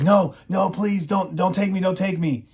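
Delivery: high, pleading cry of a man begging not to be taken. Retold or imitated. Daniel begging captors, high pleading voice. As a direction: beg them in a high voice not to take you.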